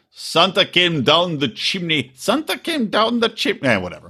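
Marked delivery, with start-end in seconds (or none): 0.1-2.1 slow, careful attempt at a Russian accent; badly faked Russian, drawn out; practiced Russian accent. Shown as a demonstration. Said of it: "I'll practice it". 2.1-3.7 high-pitched second stab at Russian; badly faked Russian accent, pitched up; practiced Russian accent. Shown as a demonstration. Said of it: "I'll practice it".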